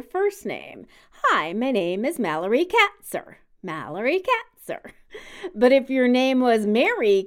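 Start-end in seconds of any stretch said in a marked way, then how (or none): 1.2-3.4 lilting triplet stress on "Mallory Katzer"; triplet rhythm. Shown as a demonstration. Hosts demo a name's rhythm in a three-beat lilt. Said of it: "you would say it in a triplet rhythm". 3.6-4.9 "Mallory Katzer" in a three-beat lilt, stress on MAL; triplet rhythm. Shown as a demonstration. Host repeats the name in a three-beat lilt. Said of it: "you would say it in a triplet rhythm".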